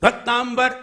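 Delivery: भक्तांबर, an "mb" put in for the m; wrong "भक्-ताम्-बर" with a clear b; misreading with B. Shown as a demonstration. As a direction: misread it as भक्तांबर, ending in "-bar". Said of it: "फिर आपने गलत क्यों पढ़ दिया".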